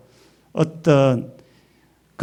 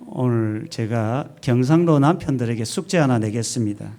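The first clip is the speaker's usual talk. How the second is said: usual speaking voice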